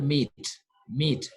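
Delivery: MEAT with a long "ee" vowel; long E sound. Shown as a demonstration. French teacher gives example for letter sound, long-vowel "meat". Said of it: "You don't say met".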